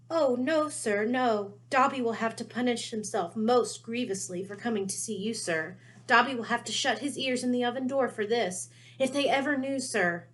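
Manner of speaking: high, anxious elf pleading; a terrified little elf begging; frightened house elf. Acted. Dobby voiced, pleading.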